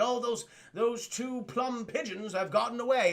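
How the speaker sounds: slow, hammed-up villain line; a hint of the cartoon Penguin; slow mocking villain voice. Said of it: "please stop saying these lines".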